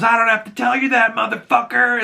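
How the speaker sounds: high, fast, cocky put-on voice; defiant Vigilante. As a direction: toss it off fast and cheeky. Vigilante defies the cops.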